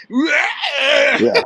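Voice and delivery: yelled high and loud, cracking; excited shout. Real, not acted. Host hollering back at his co-host. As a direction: whoop the word out. Cheering Jerry's casino antics.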